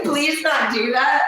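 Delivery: high, slow mocking sing-song; mocking whiny voice. Mocking the viewer's request in a high, slow whine.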